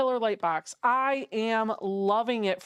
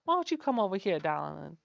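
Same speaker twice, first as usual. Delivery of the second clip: mock Deep South hospitality; Deep South accent; 3 semitones lower than usual. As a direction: put on a Southern-belle accent. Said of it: "learning how to talk Deep South".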